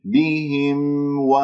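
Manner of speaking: بهم, distinct m, then a separate و; audible meem. Shown as a demonstration. Teacher models what must not be hidden, careful recitation. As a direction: let the m ring before opening to و. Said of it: "الميم".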